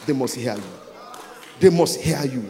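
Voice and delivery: rising step by step to a huge shout; building proclamation. Real, not acted. Preacher repeats decree, building to shout.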